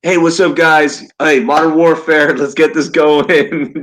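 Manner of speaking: teasing a cohost about his headset, mock gamer voice. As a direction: ham up a chatty Xbox gamer, slowing at the end. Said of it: "Just playing".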